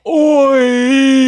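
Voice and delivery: high shouted Cockney oi; British accent. Pretend. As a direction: bark a loud British oi. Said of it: "to say British".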